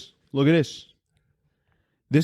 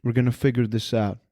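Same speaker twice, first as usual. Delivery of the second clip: lower, understated promise; mild reassurance; 5 semitones lower, faster than usual. Retold or imitated. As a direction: say it low, as gentle reassurance. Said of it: "she goes".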